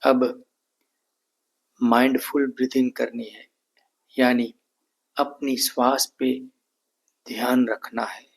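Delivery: calm, evenly spaced meditation instructions; guided meditation. Real, not acted. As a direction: lead them calmly through each breath, unhurried. Leads breathing and meditation.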